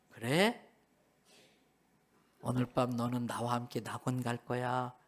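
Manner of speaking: low, soft reassuring promise; gentle assurance. Acted. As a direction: quietly grant mercy, acted. Voicing Jesus granting mercy. (낮고 부드럽게 안심시키듯)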